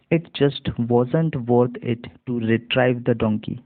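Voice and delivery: slow, careful read-aloud for learners; slow reading demo. Shown as a demonstration. Teacher reads the story slowly for students to repeat. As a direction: read each word slowly so students can follow. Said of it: "अब मैं इसको इकट्ठे पढ़ करके बताता हूँ".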